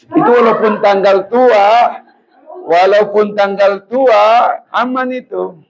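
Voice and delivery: overjoyed cry. Real, not acted. Laughing-cry over romance.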